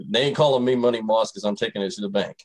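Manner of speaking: words half laughed out as he jokes; grinning, laugh-filled brag; laughing through it. Real, not acted. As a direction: chuckle through the whole boast. Joking about Money Moss nickname.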